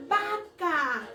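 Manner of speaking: normal talking voice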